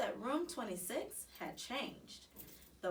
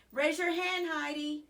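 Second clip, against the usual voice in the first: firm; 6 semitones higher, 6 dB louder than usual. A narrator's reading. Teacher corrects without turning.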